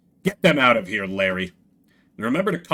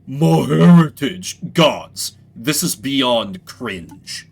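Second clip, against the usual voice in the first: slow, louder mock of My heritage; a touch of royal contempt; mocking disdain; 5 dB louder, much slower than usual. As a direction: scoff at him, drawn out. Duke mocks the squirrel.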